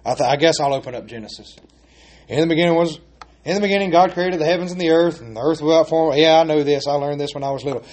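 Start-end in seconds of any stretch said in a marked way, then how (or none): 0.1-6.2 bored rushed reading. Retold or imitated. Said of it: "we'll say".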